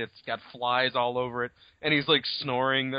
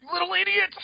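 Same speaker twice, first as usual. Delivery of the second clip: hammed-up outrage, pitched way up; mock exasperated outburst. Teller berating the girl in the story, mock exasperation.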